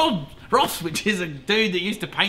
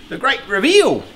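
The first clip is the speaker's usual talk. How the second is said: louder, higher announcer reveal; loud grand reveal; 7 semitones higher, 7 dB louder than usual. Shown as a demonstration. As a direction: proclaim it like unveiling a prize. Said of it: "as I usually say".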